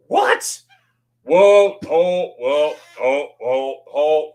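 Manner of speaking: high, loud surprised exclamation; jolted, trying to stop the news; startled whoa. Real, not acted. Reacting to a viewer's plan to move to Germany, loudly surprised.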